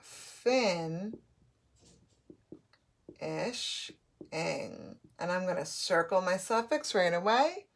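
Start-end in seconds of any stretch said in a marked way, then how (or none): 0.0-5.0 FIN-ISH, ING in three isolated pieces with long pauses; sounded out for writing. Shown as a demonstration. Teacher writing the word, FIN-ISH, ING slowly sounded out. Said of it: "let's write that".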